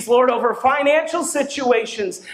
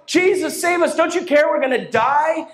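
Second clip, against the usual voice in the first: 1 mock panicked cry; 4 semitones higher than usual. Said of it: "they're crying out".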